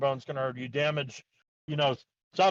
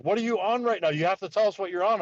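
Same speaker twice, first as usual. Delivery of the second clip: higher-pitched mock interrogation; pressing, disbelieving questions; insistent questioning; 5 semitones higher than usual. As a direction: imitate incredulous staff demanding an answer. Staff interrogate him in retold exchange.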